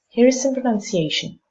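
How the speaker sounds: some reduced, here lifted high; weak some, strong here. Shown as a demonstration. Teacher demonstrating the weak form of some, with stress. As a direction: throw away some and raise here. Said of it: "So some is not stressed, it's reduced".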